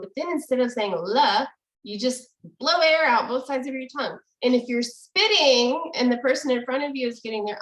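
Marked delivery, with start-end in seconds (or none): 1.0-1.5 "la" with an ordinary English L; regular L sound. Shown as a demonstration. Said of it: "say a regular L sound".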